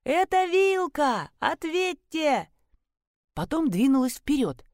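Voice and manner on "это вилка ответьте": high, slow, drawn-out yell; yelling with all her might. A narrator's reading. Narrator shouts to the woman trapped in the pit, full yell. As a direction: bellow it out into the dark. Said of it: "что есть сил, заорала".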